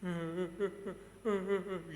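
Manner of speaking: mimicked short sobbing bursts; tiruan tangis. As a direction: imitate a child's sobbing. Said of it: "Nangis tapi sambil melotot". (menirukan isak tangis anak)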